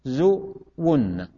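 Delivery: تغزون split slowly, the doubled final nun held; drawn-out demonstration. Shown as a demonstration. Teacher giving class examples, drawn-out demonstration. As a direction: stretch تغزون out slowly, lingering on the ending.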